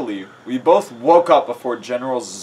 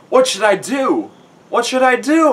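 high, loud frantic questions; mock panic, climbing higher on the repeat; panicked; 12 semitones higher, 6 dB louder than usual. A narrator's reading. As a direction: ask it frantically, pitched up. Narrator acts out panicked thought.

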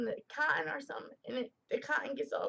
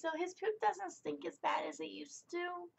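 whisper; 3 semitones higher, 6 dB quieter than usual. Real, not acted. Whispering about old pet.

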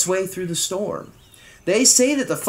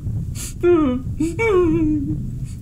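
high, wailing royal sob; loud mock sob; 7 semitones higher than usual. Old king breaks down before his page, acted sobbing. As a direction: sob theatrically, wordless. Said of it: "heard a great deep sob".

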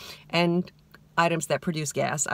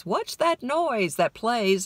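hillbilly; 5 semitones higher, slower than usual. Pretend. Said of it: "I feel like the Beverly Hillbillies".

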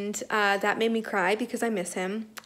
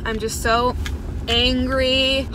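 angry; 3 dB louder, slower than usual. Real, not acted.

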